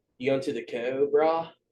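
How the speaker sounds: easygoing, laid-back surfer-dude way of talking. Discussing how a place name is said, in a surfer accent. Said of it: "I'm saying it like a surfer".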